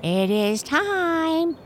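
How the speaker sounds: high, slow, hoarse bird cry. A narrator's reading. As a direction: drag it out in a hoarse caw. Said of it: "cried the cowbirds in their hoarse voices".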